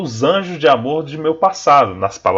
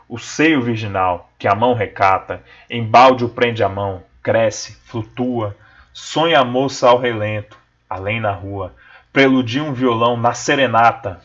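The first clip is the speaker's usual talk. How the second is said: reading with the pauses of the ellipses; expressive reading; 3 semitones lower than usual. Shown as a demonstration. Teacher rereading the stanza to show the punctuation, with pauses. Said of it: "vamos reler essa estrofe".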